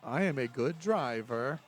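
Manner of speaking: slow, stilted robot voice; a stiff robot like Rain Man. Retold or imitated. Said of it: "like Rain Man the robot".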